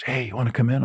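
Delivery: lightly imitated low, breathy invitation; a hint of a hushed, breathy offer. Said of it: "with the low breathy voice".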